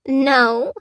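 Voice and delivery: put-on high, childlike no; giggly little girl. A narrator's reading. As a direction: answer as a playful little girl. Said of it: "giggled Lucy".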